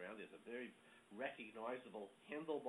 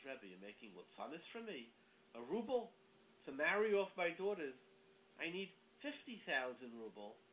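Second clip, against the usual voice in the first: indignant protest; 3 semitones higher than usual. Retold or imitated. Poor man protests a tiny gift.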